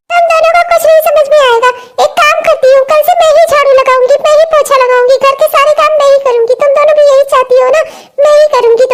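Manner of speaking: exasperated mother-in-law's rant; fed-up scolding. Acted. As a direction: lay on the aggrieved martyrdom. Fed-up mother-in-law scolds, threatens to do chores.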